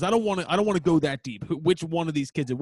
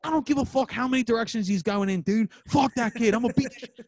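higher-pitched mock defiance; retold heated outburst; 5 semitones higher than usual. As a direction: play a fired-up friend ready to fight. Retelling friend's heated outburst at the kid.

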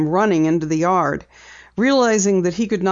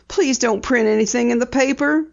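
higher, anxious plea; pleading; 6 semitones higher than usual. A narrator's reading. Woman begs editor not to publish, pleading. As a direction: plead with mild urgency. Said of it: "Missus Preston pleaded".

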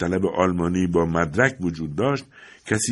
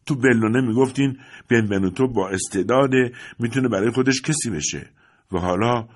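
bitter outburst; 4 semitones higher than usual. Acted. Son's long outburst at father.

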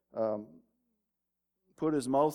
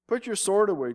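raised, commanding voice, higher and louder; firm command; 6 semitones higher, 5 dB louder than usual. Acted. Jesus orders Peter to drop his sword, raised commanding voice. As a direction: order him to put the sword down.

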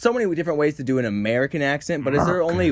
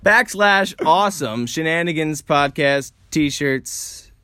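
slow, spaced-out mock web address; podcast ad voice; slower than usual. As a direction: spell out the plug like an announcer. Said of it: "that's what they say".

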